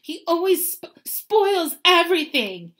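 high, loud, bratty tantrum; slow, whiny yell of a spoilt child; yelling through pretend sobs. A narrator's reading. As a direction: bawl it out with fake sobs breaking in. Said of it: "yelled between huge pretend sobs".

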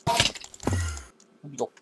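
slow breathy whisper, drawn out; whispered slow coaxing; soft drawn-out whisper. Acted. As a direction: coax it in a slow hush. Talking to mob in game.

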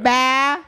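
"Ba" held level, neither rising nor falling; neutral tone. Shown as a demonstration. Guest demonstrating the Vietnamese word for three, "Ba" in neutral tone. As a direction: keep "Ba" on an even tone. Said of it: "And then neutral".

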